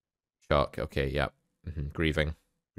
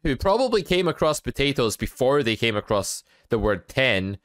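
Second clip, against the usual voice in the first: mock disbelief; 11 semitones higher than usual. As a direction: pitch climbing to a squeaky falsetto. Mock outrage over the word ten.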